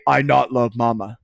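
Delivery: lightly voiced caveman, "not" right after "I"; a hint of caveman in a plain, blunt line; caveman talk. Shown as a demonstration. Teacher shows students what we don't say, mild caveman talk. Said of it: "That's caveman talk".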